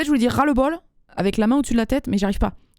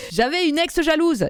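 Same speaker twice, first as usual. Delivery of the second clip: slow, higher read through laughter; laughing while reading; 5 semitones higher than usual. Real, not acted. Host reading a listener's jealous-ex joke, laughing.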